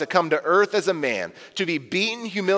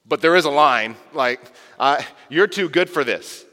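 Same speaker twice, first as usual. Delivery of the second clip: Peter arguing. Pretend.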